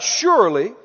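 phrase by phrase for repeating; out-loud declaration. Shown as a demonstration. Preacher leading people to say it out loud, measured declaration. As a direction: lead a congregation in an emphatic confession. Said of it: "say it out loud".

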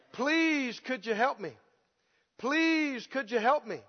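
drawn-out please, falling away softly; mock pleading refrain; repeated begging. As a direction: plead like a helpless beggar. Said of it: "To ask over and over again".

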